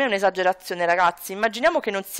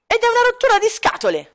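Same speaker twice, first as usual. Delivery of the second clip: whining shout; 10 semitones higher than usual. Acted. Son ranting to his father about rules, high whiny child. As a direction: kid throwing a tantrum at dad.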